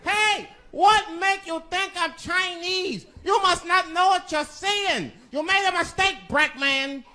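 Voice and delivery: put-on high, slow, accented shouting correction; high-pitched offended store owner yelling; indignant shopkeeper. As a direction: set the customer straight. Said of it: "Mister Fong said".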